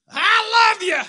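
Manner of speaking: high, loud shout across the yard; little boy yelling to his dad; child calling out. Retold or imitated. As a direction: call out to dad from far away. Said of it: "Finn goes".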